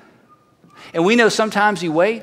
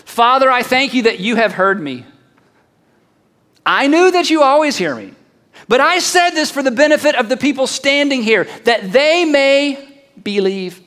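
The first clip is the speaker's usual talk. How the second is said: raised, declaimed prayer, drawing out the last words; Jesus praying aloud; 2 semitones higher than usual. Acted. Jesus to his Father before the bystanders, raised public prayer. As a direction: pray it out for the crowd to hear. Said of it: "Listen to how Jesus prayed this".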